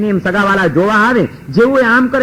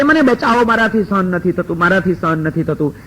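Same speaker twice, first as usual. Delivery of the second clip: fading pretend cries. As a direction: let the faked cries die away into silence. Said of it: "અને એમ રાડો પાડતા".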